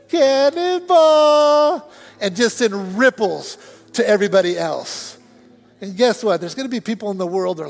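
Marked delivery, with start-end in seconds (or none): 0.1-1.9 high, loud, long-held shout; exultant cannonball yell. Acted. Believer running into the world, exultant yell. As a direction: holler it like a leaping kid. Preacher yells the boy's cry.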